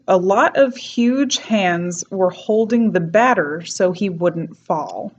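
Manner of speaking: slow New York accent key sentence. Shown as a demonstration. New York accent, teacher reading her key sentence slowly. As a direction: mouth full of mashed potatoes, New York accent. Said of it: "my key sentence is".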